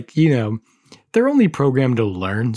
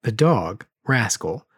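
measured, dramatic reading of a creepy tale; story narration. A narrator's reading. Host reads creepy Furby story aloud, dramatic narration. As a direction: read it like a campfire horror story.

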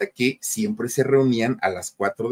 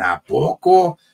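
higher, louder retold incredulity; mock disbelief; 6 semitones higher, 5 dB louder, much slower than usual. Friends react to José reforming, mock disbelief. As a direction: toss it out as an astonished friend.

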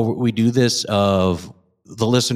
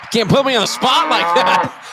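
shocked; 13 semitones higher than usual. Real, not acted. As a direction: blurt it out, caught off guard. Shocked at being put on spot.

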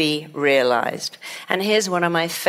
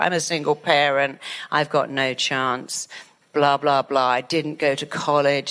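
self-pity; 3 semitones lower than usual. Retold or imitated. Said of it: "when you say".

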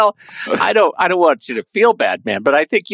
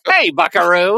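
lightly voiced 1930s newsreel announcer; a hint of a brassy old-timey announcer; 3 semitones higher than usual. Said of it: "He's turned into a thirties news".

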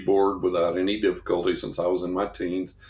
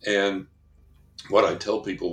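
ordinary delivery

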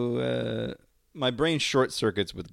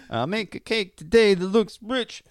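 higher, louder sing-song quote of the game line; quoting Parappa's line; 9 semitones higher, 6 dB louder than usual. Retold or imitated. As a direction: recite it like the rhythm-game lyric, bouncy and up. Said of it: "the bit in Parappa the Rapper".

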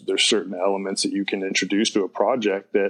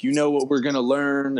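a hint of an old-school teacher, pitched higher; lightly voiced gruff professor; 5 semitones higher than usual. Gruff professor opening the first class, lightly imitated. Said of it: "he was just this really gruff".

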